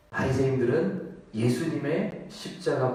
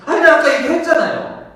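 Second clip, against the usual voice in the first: high, loud acted protest; exasperated outburst in a retold quote; exasperated retort; 13 dB louder than usual. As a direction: answer as if fed up with being asked. Acted healed man, questioned twice.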